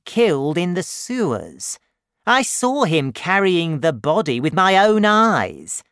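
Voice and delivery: rising insistence as the story tumbles out; Marius, urgent. A narrator's reading. Marius reveals the truth.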